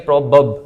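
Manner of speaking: "probab" as PROB-ub; weak second vowel in "probab"; syllable demo. Shown as a demonstration. Teacher breaks the word down, isolated "probab" as prob-ub. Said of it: "इसको हम पढ़ेंगे".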